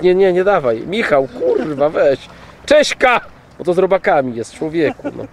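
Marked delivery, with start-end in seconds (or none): 2.7-3.2 high, sharp call of the name; sharp call to dog. Real, not acted. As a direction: snap the dog's name to stop it. (wysokie, ostre zawołanie psa)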